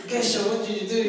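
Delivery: high, loud mock dismay; re-enacted shout to a fallen friend; retold alarmed cry. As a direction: call out in comic alarm.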